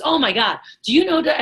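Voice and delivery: mildly imitated gush of excitement; excited going off. Impressed businessman going off about Cutco, excited. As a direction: retell his fired-up burst, pitch jumping up late. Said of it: "he was so excited".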